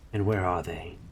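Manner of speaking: gently sweet question; sweetly. Acted. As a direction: ask it sweetly, disarming. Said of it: "said Aziraphale sweetly".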